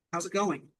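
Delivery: mild mock yell. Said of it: "Carlos yells again".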